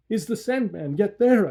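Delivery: a hint of a scared child; frightened stammer. A narrator's reading. Boy waking asking mother, lightly scared. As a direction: ask it timid and afraid. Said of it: "I stammered".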